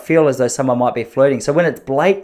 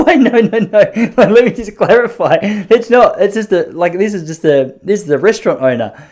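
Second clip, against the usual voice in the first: laughing denial; 7 semitones higher, 5 dB louder than usual. Retold or imitated.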